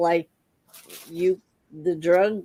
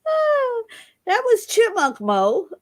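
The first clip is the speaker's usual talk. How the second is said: laughing; 14 semitones higher than usual. Real, not acted. Laughing over the sped-up voice.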